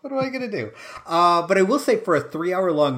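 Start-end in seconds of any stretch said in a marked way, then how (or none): 0.0-0.7 snooty voice. Retold or imitated. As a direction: sniff it like a snob. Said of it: "your snooty hypothetical voice".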